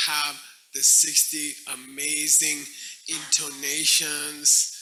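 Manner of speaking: slow, drawn-out sarcasm with mock awe; sarcastic. Debater answering an opponent with slow sarcasm. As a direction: stretch out the key words sarcastically. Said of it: "here's our sarcastic response".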